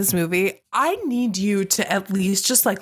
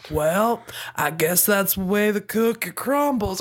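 put-on Southern movie-hero accent. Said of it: "it's his character being like".

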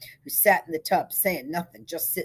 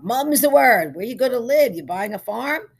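high, loud, rising questions; pry with hearty curiosity; eager jollity; 7 semitones higher, 10 dB louder than usual. A narrator's reading. Simpson quizzes groom while finishing job, eagerly jovial.

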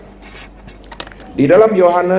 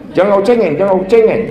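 a hint of a stern elder, pitched up; harsh Sumatran scolding; 5 semitones higher, much faster than usual. Preacher voicing a Sumatran elder scolding a boy, mildly stern. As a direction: snap at the boy not to be a crybaby. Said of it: "biasanya orang Sumatera begitu kan".

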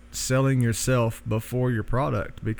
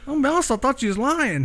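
sheepish amazement; 13 semitones higher than usual. Retold or imitated. Admitting he doubted his friend.

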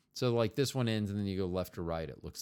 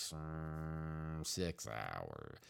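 very deep voice; 7 semitones lower, 13 dB quieter, much slower than usual. Acted. Deep voice for big number.

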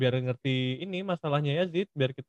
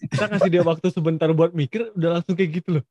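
raised voice to stop them; loud; 4 semitones higher, 9 dB louder than usual. Real, not acted. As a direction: loudly call for a pause. Interrupting the summoning. (berseru keras)

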